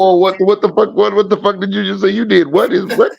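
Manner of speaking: high, stunned what-the-hell; can't believe what he heard; shocked disbelief. Real, not acted. Shocked at wall confession.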